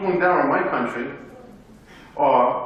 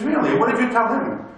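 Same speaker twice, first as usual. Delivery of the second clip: mildly surprised, higher-pitched question; retold surprise; 5 semitones higher than usual. Father questions his son about the neighbourhood kids, retold surprise. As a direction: react to the news with raised pitch.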